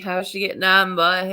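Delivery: quick Newfoundland phrase, imitating home talk; a light Newfoundland lilt on a local greeting; casual Newfoundland greeting; Newfoundland accent. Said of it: "It's like".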